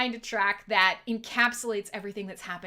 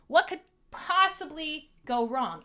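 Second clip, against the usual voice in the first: sarcastic; 5 semitones higher, 4 dB louder than usual. Real, not acted. Sarcastic about risky glass job.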